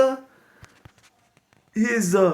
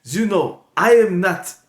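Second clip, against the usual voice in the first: Sizzler voice; 5 semitones lower than usual. Acted. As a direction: growl it low like a self-declared villain. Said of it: "I pass the mic over to Mister Sizzler".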